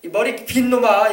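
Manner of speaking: slow, loud scolding cry; slow, loud name-calling; scolding shout. Retold or imitated. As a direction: drag out each insult like an exasperated father. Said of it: "이 말이에요".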